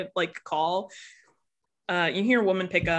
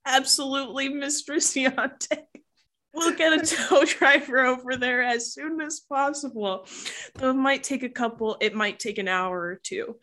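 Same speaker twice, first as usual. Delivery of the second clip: higher, overly courteous customer-service voice; polite dispatcher; 6 semitones higher than usual. Acted. Francis the dispatcher reassuring the caller, high and polite. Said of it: "Francis over the line just go".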